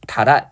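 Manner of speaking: 달아 with ㄹ carried over, no h; silent ㅎ, linked. Shown as a demonstration. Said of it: "히읗 발음하지 않고".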